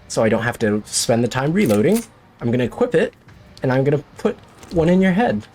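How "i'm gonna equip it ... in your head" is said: mock threat. Real, not acted. Gamer taunting a monster before shooting, playful menace. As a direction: taunt the monster, dragging out head.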